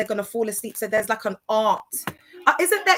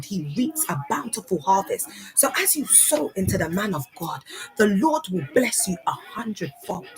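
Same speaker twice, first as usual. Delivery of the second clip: light pulpit cadence urging donations, hushed at the end; mock preacher appeal. Mocking a preacher asking the flock to give money. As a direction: coax the congregation to sow into the ministry. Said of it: "they'd be like".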